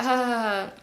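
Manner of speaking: imitated laugh, brushing it off; mock dismissive laugh. Storyteller showing how she shrugged off her friend's comment, mock laugh. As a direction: fake a little "ha, ha, ha" laugh. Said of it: "laughed it off".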